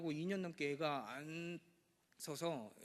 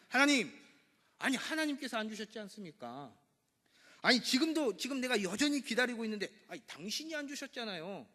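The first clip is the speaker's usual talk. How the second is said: Abraham protesting, rising and loud; arguing with God; 6 semitones higher, 5 dB louder than usual. Acted. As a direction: complain to God like a sulking man. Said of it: "따지는 거예요". (하나님께 따지듯 투덜대며)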